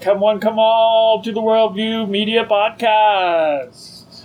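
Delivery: step-right-up carnival pitch; circus barker. Pretend. Host mimics circus barker opening.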